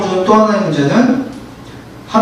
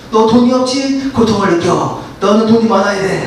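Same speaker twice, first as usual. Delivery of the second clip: tempting Satan; 2 semitones higher than usual. Acted. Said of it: "하면서 사탄이".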